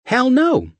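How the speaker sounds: high, loud Southern shout; loud exclamation. A narrator's reading. Steph exclaiming to John, loud Southern. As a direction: blurt it out.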